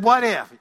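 "What if?" with WHAT punched and falling; stress on WHAT. Shown as a demonstration. Pastor repeating the phrase to the congregation, stressing WHAT. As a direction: lean on WHAT to drive it home. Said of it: "I said".

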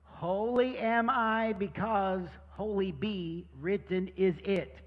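slow puppet recitation of the verse in reverse; backwards speech. Shown as a demonstration. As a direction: read it backwards, word by word, slowly. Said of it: "Can you say the memory verse backwards?".

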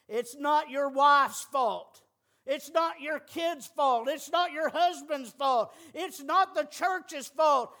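each line slow and loud, landing hard on fault; slow emphatic litany. Acted. Preacher to the congregation, slow, loud, emphatic repeats. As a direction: hammer it home one slow line at a time.

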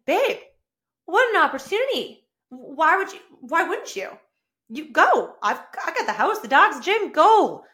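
high, loud, eager push to go; excited encouragement. Retold or imitated. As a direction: cheer him on to take the trip. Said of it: "I'm like".

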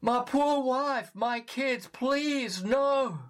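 high pleading cry, a touch held back; desperate cry. Retold or imitated. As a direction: beg for your family's life. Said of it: "he cried out in despair".

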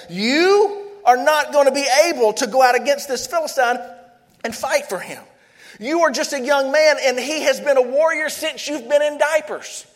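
a touch of sarcasm, mock doubt; lightly mocking a young boy's chances. Saul mocking David's chances, with mild sarcasm. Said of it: "just hear the sarcasm".

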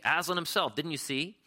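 high, bright-eyed insistence; a young girl insisting to her doubting brothers and sisters; eager insistence. A narrator's reading. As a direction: press them to believe you. Lucy insists she saw Aslan.

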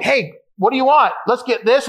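playfully eager, voice lifted; retold eager treating. Splashing out on dinner, retold.

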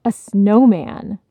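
mild happy yell; happy shout. Acted. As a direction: call it out like a thrilled little boy. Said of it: "Benny shouted happily".

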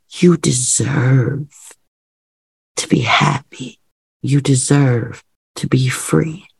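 deliberate affirmations with long pauses; loving self-affirmation. Shown as a demonstration. Coach models loving affirmations said to oneself, heartfelt and deliberate. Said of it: "those loving things that you say to yourself".

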